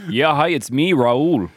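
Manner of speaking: put-on light Minnesota accent Raul. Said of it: "with a North Minnesota accent".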